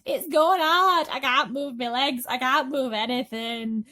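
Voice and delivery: high, loud, slow moaning. Acted. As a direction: moan it in misery. Centipede continues moaning.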